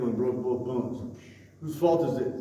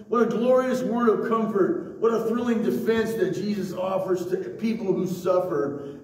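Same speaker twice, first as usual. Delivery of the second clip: higher, louder pulpit delivery; emphatic preaching; 7 semitones higher, 5 dB louder than usual. Real, not acted. Pastor arguing about the blind man's guilt, emphatic preaching. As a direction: drive the argument home to the congregation.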